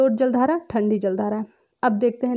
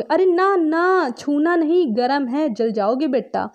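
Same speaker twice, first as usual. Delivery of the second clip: put-on warning a child; 4 semitones higher, slower than usual. Teacher acting a parent stopping a child near a burning lamp, alarmed then gentle. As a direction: pull a kid back from a lamp. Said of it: "बच्चा उधर जा रहा है तो आप क्या कहोगे?".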